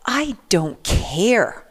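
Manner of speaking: slow, breathy whispered brush-off; cold dismissal. Retold or imitated. Customs officer brushing off her apology, slow whisper. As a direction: hiss it out slowly, unmoved.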